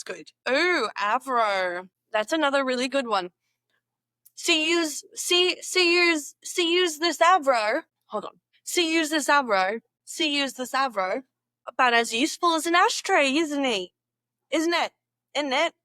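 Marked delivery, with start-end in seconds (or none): 4.3-11.2 higher mock Aussie phrase; Australian accent attempt. Shown as a demonstration. Learner repeating slang phrase, high mock Australian accent. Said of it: "test them out". 11.7-15.7 higher, louder mock Aussie; quick cheeky Aussie quip; Australian accent attempt. Shown as a demonstration. Learner voicing an Aussie saying, mock Australian accent. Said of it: "test them out".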